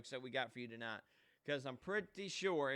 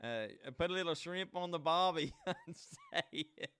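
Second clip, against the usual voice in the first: put-on Australian accent; 3 semitones higher than usual. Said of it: "let me talk a little Australian".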